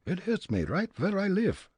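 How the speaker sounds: put-on high, comic German-accented Fritz; thick immigrant German accent, pitched high. Fritz sizing up the old man, German accent.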